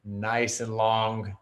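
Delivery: words drawn out very slowly; slow and long. Shown as a demonstration. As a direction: stretch it out like a long exhale. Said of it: "breath in the nose".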